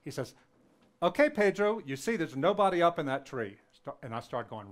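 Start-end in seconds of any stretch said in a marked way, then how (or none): 1.0-3.6 angry dad. Retold or imitated. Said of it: "he's angry".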